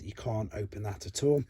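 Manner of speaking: ordinary talk, nothing marked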